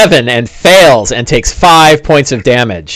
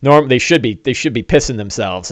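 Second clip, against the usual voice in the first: nervous mutter; 3 semitones lower, 6 dB quieter than usual. Acted. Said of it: "the orc in the rear was like".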